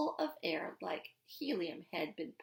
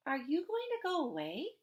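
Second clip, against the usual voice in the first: small worried voice; 6 semitones higher than usual. Acted. Worried child asks father.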